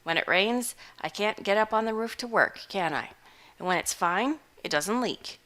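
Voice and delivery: a hungover hermit shrugging it off; gruff old farmer. Acted. Butterbloom continues.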